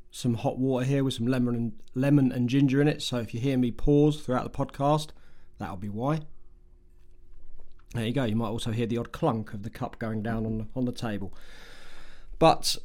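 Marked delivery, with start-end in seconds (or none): none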